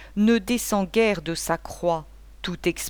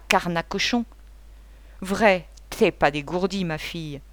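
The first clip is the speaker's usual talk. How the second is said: gueulé un peu plus fort, en vieux pochard; beuglement. Acted. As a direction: beugle comme un ivrogne indigné. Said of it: "Isidore se mit à beugler". (légère gueulante de vieux soûlard)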